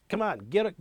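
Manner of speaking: traffic cop hurrying. Retold or imitated. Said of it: "the traffic cop says".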